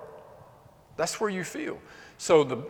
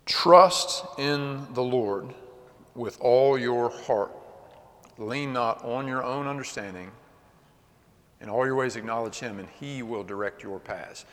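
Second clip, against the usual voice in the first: scripture recitation; 3 semitones lower than usual. Real, not acted.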